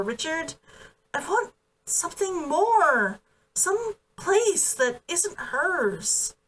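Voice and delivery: a hint of a determined young woman, slowing at the end; mildly voiced young woman who wants her own place; lightly voiced earnest young woman. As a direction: press the point, then drag the last words out slowly. Kazunoha explaining her leaving.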